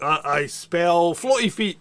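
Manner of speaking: mock wizard spell. Imagining the floating wizard's spell, mock incantation. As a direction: cast it like a silly wizard. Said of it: "did he go like".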